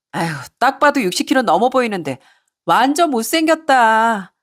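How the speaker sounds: acted tipsy sneer at a rival; drunken mocking. Drunk mistress ridicules the wife to her lover, mocking. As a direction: taunt her with exaggerated, lilting pity. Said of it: "휘청거리며 절 비웃었습니다".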